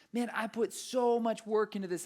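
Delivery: high-pitched frustrated venting. Retold or imitated. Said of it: "so frustrated and going".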